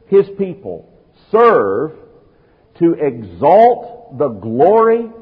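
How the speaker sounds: slow, weighty pulpit cadence; preaching. Acted. Preacher stating his theme to the congregation, slow and weighty. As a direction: lay out each phrase with gravity.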